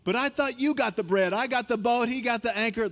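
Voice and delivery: mock panicking disciples; flustered disciples. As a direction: blurt out excuses, ignoring the warning. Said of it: "all the disciples look at Jesus and go".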